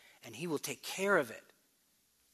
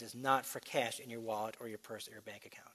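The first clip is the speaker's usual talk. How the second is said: whispered aside; 4 semitones lower, 6 dB quieter than usual. Real, not acted. Preacher whispering the point to his congregation. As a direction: drop to a soft whisper.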